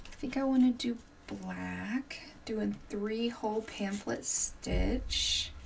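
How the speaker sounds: soft unvoiced musing; whispered to self. Real, not acted. Crafter whispering to herself about stitching choices. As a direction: whisper it while working.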